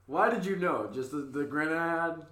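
exasperated, laughing protest. Real, not acted. Caught out about incest questions.

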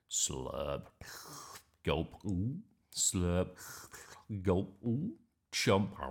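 slurping and gulping with rising oohs; strange eating noises. Acted. Strange sounds from Grandma's bedroom, greedy eating noises. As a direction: act out a noisy, greedy snack. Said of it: "she heard some strange sounds".

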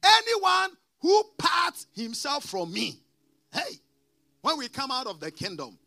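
preaching scripture. Acted. Preacher warning the congregation from the verse, shouting then easing. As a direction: cry out the warning to the flock.

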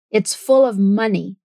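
"It's full of money" in neutral General American; General American accent. Shown as a demonstration. Teacher repeats the line in General American. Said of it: "repetir com o General American Accent".

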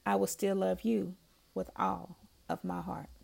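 measured, heartfelt poetry recital; poem reading. Acted. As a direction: read each line of the love poem with feeling. Reads her own poem aloud.

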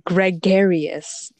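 slow "gregarious", opening with a clear "greg"; sounded-out word. Shown as a demonstration. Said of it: "you spell it the way you say it".

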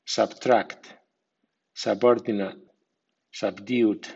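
sub-TRACT, sub-OR-dinate, sub-DUED; weak sub in subtract, subordinate, subdued; weak stress on prefix. Shown as a demonstration. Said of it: "Y con acento débil".

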